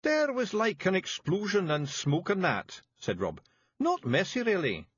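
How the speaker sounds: high, thick Scots pixie voice; small tough Scots fairy breaking bad news; Scottish Feegle voice. A narrator's reading. Feegle Rob.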